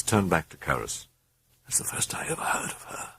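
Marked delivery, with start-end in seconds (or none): 1.6-3.1 hushed, breathless whisper. A narrator's reading. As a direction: whisper it so no one hears. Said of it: "she whispered".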